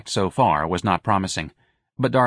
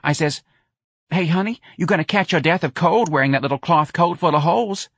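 high, chatty mother telling a story; a mother pours out a pity tale to her son; Missus Riley gossiping; 6 semitones higher than usual. A narrator's reading. Mother tells son about praline lady, high chatty voice.

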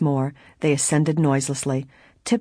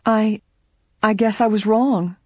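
sheepish; 6 semitones higher, 4 dB louder, slower than usual. A narrator's reading. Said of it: "Helen looked sheepish".

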